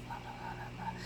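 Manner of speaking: barely audible whispered blah blah. Retold or imitated. Mocking a soft-spoken girl by whispering. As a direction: mimic someone you can't hear, whispering. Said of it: "she's just talking like this".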